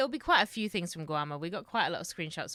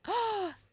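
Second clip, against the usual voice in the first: surprised gasp; 14 semitones higher than usual. Acted.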